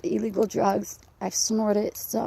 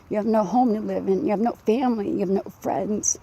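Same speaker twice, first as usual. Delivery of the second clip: breathless, heavy breathing; winded voice, pushing words out. Real, not acted. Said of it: "I'm speaking like this 'cause I'm out of breath".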